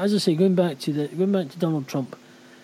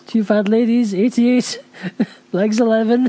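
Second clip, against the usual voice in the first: loud, higher bingo call; bingo caller; 4 semitones higher, 5 dB louder than usual. Pretend. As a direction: call the numbers like a bingo hall. Calling bingo numbers.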